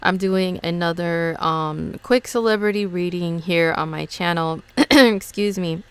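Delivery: rough, raspy just-woke-up voice; hoarse morning voice. Real, not acted. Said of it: "I sound like an old smoker lady".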